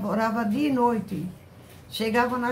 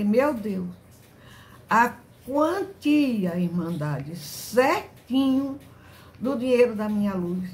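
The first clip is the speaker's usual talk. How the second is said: amazed; slower than usual. Retold or imitated. Amazed at the exact amount.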